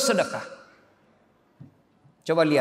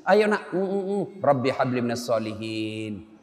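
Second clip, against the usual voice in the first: whispered prayer; 8 semitones lower, 5 dB quieter than usual. Shown as a demonstration.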